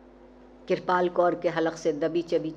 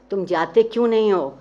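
louder, snapping with irritation; irritated; 3 semitones higher, 8 dB louder than usual. A narrator's reading. Mozel snapping at Trilochan to leave, irritated. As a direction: push him out the door with impatience. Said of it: "لہجے میں چڑچڑاپن تھا".

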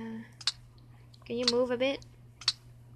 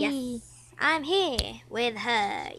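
put-on slow, drawn-out old man voice; creaky old geezer, very slow; much slower than usual. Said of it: "that's your old man voice".

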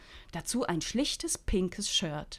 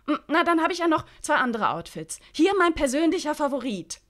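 put-on high, lively young woman; Freddy's voice; 9 semitones higher, 8 dB louder, faster than usual. Freddy brushing off old TV hosts, high and breezy. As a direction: pitch it up, breezy and carefree.

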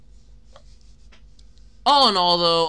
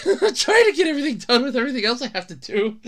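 laughing through a higher-pitched complaint; 4 semitones higher, 4 dB louder, faster than usual. Real, not acted. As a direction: laugh while pleading overwork. Laughing over his workload.

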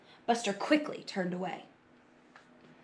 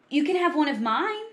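higher, hopeful offer; kind offer; 6 semitones higher, 4 dB louder than usual. A narrator's reading. Carla offering Buster her sandwich, kind offer. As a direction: offer to share, gently eager. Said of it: "she offered".

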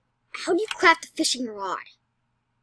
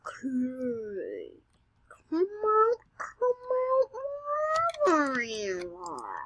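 creepy singsong voice; 3 semitones higher, much slower than usual. Pretend. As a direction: lure it out like a storybook villain. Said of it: "that's a horrible voice".

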